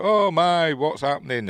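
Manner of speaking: high, loud mock alarm; hammed-up fright over the body. Voicing the villager who finds the body, mock alarmed. Acting out character's line.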